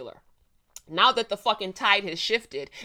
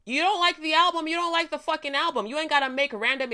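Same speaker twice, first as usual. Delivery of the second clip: emphatic; 8 semitones higher than usual. Real, not acted. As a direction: belt it out like a challenge. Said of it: "with your full fucking chest".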